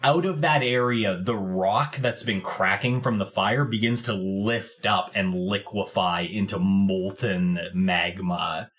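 unhurried fantasy storytelling; game master's scene setting. A narrator's reading. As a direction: draw the description out as it takes shape. Game master describes the creatures forming.

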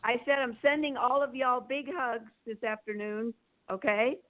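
speakerphone voice, breaking up; calling in on a bad line; over the phone. Real, not acted. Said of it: "you on speaker there".

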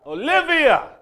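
high, loud call across a distance. Retold or imitated. Someone far off yelling Olivia's name, loud and high. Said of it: "they yelled out".

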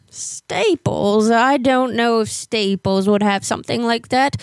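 lightly voiced old lady with a hint of English accent. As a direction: play a fussy old neighbor lady on a prank call. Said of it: "when I talk like an old lady".

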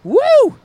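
high, loud party whoop. Real, not acted. Host cheering after singing the hit, loud whoop. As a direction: let out a pop-star woo.

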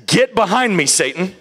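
blunt rebuke. Retold or imitated. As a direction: cut him off hard. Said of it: "he didn't say it like that".

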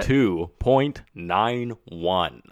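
slow dramatic announcer reveal. Pretend. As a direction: draw out the number like a host. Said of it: "That was a pretty good voice".

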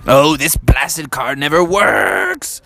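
slow, mildly exasperated grumble; frustrated dad. Acted. Dad curses the dead car, slow mock frustration. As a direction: draw out the mock annoyance.

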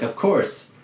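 oily overdone villain confession; mock villain promise. Billy Zane reassures Rose, in hammy villain voice.

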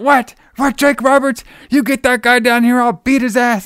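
high, loud, hammed-up outrage; mock freak-out. Wrestler freaking out at the woman in the crowd, high hammed-up yell. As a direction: squeal it like a riled-up wrestler. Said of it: "they start freaking out".

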